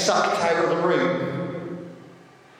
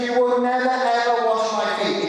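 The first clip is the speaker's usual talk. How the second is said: a touch of indignant protest, pitched up; protesting Peter; 6 semitones higher than usual. Retold or imitated. Peter refusing Jesus, mild indignant protest. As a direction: refuse him, lightly acted. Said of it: "Peter protested".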